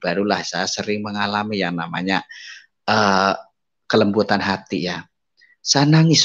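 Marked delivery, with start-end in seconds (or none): 5.6-6.2 tearful. Retold or imitated.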